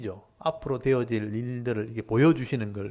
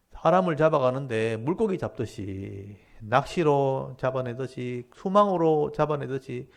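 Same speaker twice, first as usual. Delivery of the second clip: challenging God. Retold or imitated. Prophet protests to God that people are caught like fish, challenging. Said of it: "이렇게 따지는 거예요".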